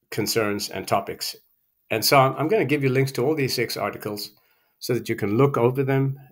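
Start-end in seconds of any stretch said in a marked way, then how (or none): 1.9-6.2 slightly out of breath; talking a little winded. Real, not acted. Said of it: "I'm kind of out of breath".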